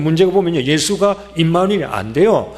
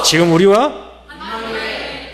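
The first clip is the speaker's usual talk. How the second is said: slow cue with a lifted ending; slogan call; 2 semitones higher, slower than usual. Real, not acted. Pastor prompts congregation for the next answer, slow call. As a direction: hand the chant over to the crowd. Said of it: "한번 해보십시다".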